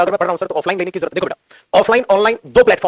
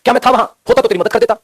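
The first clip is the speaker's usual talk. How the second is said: rhetorical self-question; 4 semitones higher, 5 dB louder than usual. Retold or imitated. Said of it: "खुद ही से question पूछते हैं".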